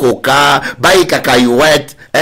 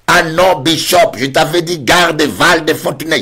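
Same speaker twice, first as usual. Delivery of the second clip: higher, insistent sister voice; sister's reply; 5 semitones higher than usual. Retold or imitated. The sister correcting the bishop, higher and insistent. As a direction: correct him, a little indignant.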